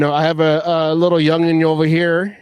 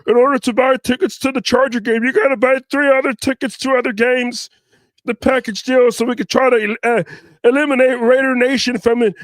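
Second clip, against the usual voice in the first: mock team officials; 4 semitones higher than usual. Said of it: "the old school way where they try to".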